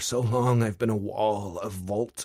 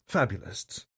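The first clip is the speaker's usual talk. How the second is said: correcting. A narrator's reading. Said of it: "she corrects".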